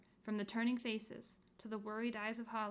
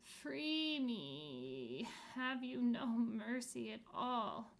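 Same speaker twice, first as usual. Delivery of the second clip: groaning plea; 2 semitones higher, much slower than usual. Acted. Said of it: "prolonged groan".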